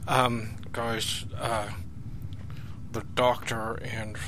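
soft, hushed aside to the audience. Real, not acted. Whispering to the audience in the lift, hushed. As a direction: keep it down so the doctor can't hear.

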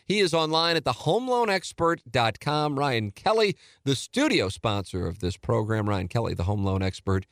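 lively announcer read of the sponsor. Acted. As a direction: sell the home loan sponsor like a host-read spot.

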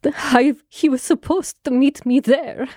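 put-on mildly tearful plea in a foreign accent; understated acted distress, accented; put-on crying. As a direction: play upset, halting between phrases. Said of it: "So she starts crying".

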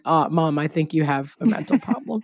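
imitated concerned daughter, understated; quietly delivered mock concern from a daughter. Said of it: "to being like".

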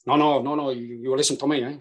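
put-on Spanish stroke Yorkshire accent; Sevi. Caddie retelling Sevi ordering his partner about, Spanish-Yorkshire accent. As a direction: imitate a Spanish golfer through a Yorkshire accent. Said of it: "your Spanish stroke Yorkshire accent".

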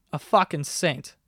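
slowish, slight Boston accent. Real, not acted. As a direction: slip briefly into a Boston accent. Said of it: "I just got, like, a Boston accent".

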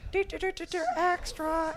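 high, bright newsreel jingle; 1940s newsreel voice. Pretend. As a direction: hum the newsreel fanfare, old-timey. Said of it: "my best old-timey nineteen forties, uh, voice".

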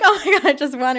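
high, loud reenacted win; high-pitched imitation of winner's shrieking; retold excited scream. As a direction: relive the big win, laughing and loud. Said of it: "I'm screaming".

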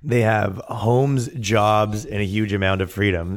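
the quote drawn out slowly, mocking. Mocking the activists' statement by quoting it slowly. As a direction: stretch out "They have homes" slowly in mockery. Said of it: "They go".

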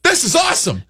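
host faking delight at the dog camera; mock excited. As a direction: squeal it like a thrilled kid. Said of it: "I'm like".

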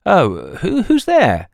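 startled wife calling into the dark, frightened; frightened piping. Acted. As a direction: pipe it out in alarm through the door. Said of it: "Ada's frightened voice piped".

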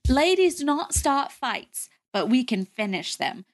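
lightly British, measured quote; British accent. Retold or imitated. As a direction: quote her with a slight British lilt. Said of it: "she has a British accent".

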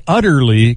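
UTTERLY given clear emphasis; utterly picked out from the rest; stress on UTTERLY. Real, not acted. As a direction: lean on the word utterly. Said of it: "emphasis on utterly".

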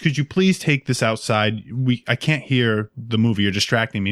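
put-on slowly and sweetly asking the kid to stop; mild imitation of a nice elderly woman; slow polite request. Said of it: "'Cause she was very nice".

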